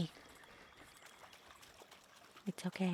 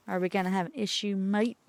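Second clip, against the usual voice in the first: mock bogan Australian. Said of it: "in a bogan way".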